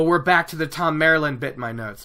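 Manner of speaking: usual speaking voice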